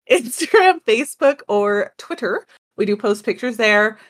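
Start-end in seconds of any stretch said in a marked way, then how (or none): 0.1-2.5 higher, laughing retake of Instagram and Facebook. Shown as a demonstration. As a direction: redo it brightly, laughing. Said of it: "I thought it was pretty smooth".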